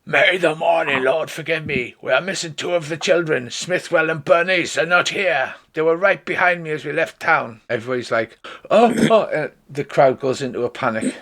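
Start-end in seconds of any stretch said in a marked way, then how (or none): 0.0-7.6 higher-pitched urgent announcement; mildly acted alarm; mock shout. 8.7-9.2 high, loud acted gasps; hammed-up shocked exclamation; crowd alarm. Panicking crowd voiced by game master.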